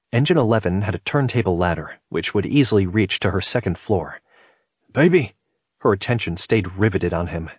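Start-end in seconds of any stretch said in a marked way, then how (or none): 4.9-5.3 high, loud call. A narrator's reading. Man calls to woman in the upstairs window, calling out. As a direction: call up to grab a loved one's attention.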